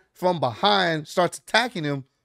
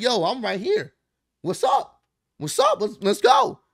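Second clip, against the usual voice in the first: high, hyped-up taunt, pitch jumping way up; a retold ringside challenge to Solo, high and taunting; mock callout; 8 semitones higher than usual. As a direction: wave him in with a sing-song high dare. Knight calls Solo back to ring.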